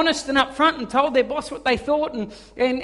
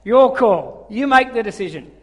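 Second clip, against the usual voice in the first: laughing through the repeated punchline; laughing retelling; 7 dB louder than usual. Real, not acted. Preacher repeating the punchline to the church, laughing. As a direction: chuckle as you repeat the lighthouse line.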